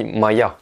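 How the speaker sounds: Maya with the weight on ya; Maya, light first syllable, stressed ya; stress on final ya. Shown as a demonstration. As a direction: lean on the last syllable of Maya. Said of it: "l'accentuation du mot est sur le ya".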